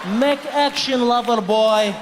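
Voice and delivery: slow, mock Russian-accented command. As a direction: say it slowly like a tough Russian woman. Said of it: "get your Russian out".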